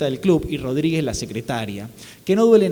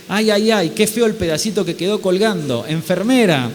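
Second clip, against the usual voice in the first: mad surgeon; 4 semitones higher, 3 dB louder than usual. Acted. Surgeon with crazy face.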